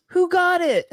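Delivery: very high mock yell; high-pitched imitation of an eager shouter; imitated yelling. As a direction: call out like the loud guy in a crowd. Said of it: "one guy was yelling so loud".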